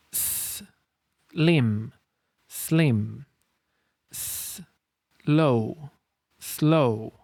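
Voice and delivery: "slim" and "slow" with a voiceless S before the L; no vowel before the S; careful sl. Shown as a demonstration. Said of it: "Pay attention to the fact that it's".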